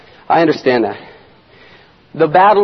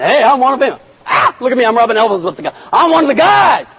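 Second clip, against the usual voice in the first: excited, raised show-off voice; eager hanger-on; 5 semitones higher than usual. Acted. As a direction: brag your way into the in-crowd. Acting eager hangers-on around Jesus.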